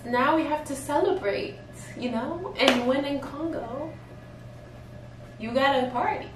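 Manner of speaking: giddy high-pitched party talk; excited. Retold or imitated. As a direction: hype up the celebration. Excited retelling of celebrating.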